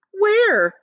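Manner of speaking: high, startled where; surprised question. Acted. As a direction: ask in disbelief. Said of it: "they asked".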